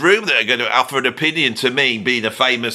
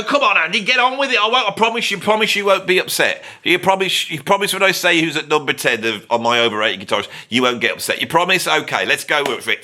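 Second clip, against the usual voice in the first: high, wheedling mock plea; pleading crowd, high voice; mock pleading audience; 5 semitones higher than usual. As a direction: beg him to get on with it. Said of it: "And they go".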